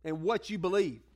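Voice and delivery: ordinary delivery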